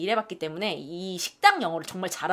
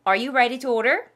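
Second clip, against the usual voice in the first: waiter voice; 2 semitones higher, 5 dB louder, much slower than usual. Acted. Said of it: "오케이".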